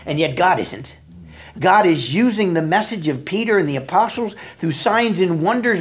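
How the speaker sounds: normal talking voice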